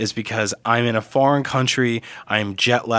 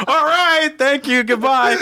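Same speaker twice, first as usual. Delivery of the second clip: higher, rushed mock relief; hammed-up quick goodbye; mock hasty exit; 13 semitones higher, 3 dB louder, slower than usual. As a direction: bolt for the door in words. Hurrying out after quake.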